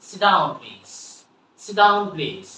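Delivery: "sit down please" with the T in sit swallowed; silent T. Shown as a demonstration. Teacher models "sit down please" for learners, T in sit silent. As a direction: run sit into down, no audible T in "sit". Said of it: "আমরা কি বলবো?".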